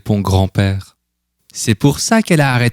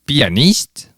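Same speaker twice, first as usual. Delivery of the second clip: surprised question; 6 semitones higher than usual. A narrator's reading. Grandfather hears surprising news.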